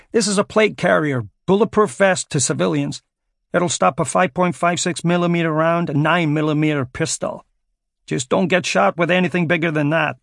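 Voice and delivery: firm soldier shouting orders. Acted. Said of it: "shouted the soldier".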